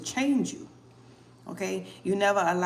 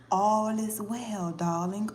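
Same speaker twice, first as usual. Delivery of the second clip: slow soothing calm; reassuring; slower than usual. Real, not acted. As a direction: comfort her gently.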